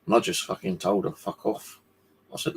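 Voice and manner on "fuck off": hissed retort. Retold or imitated. Retold telling neighbour off.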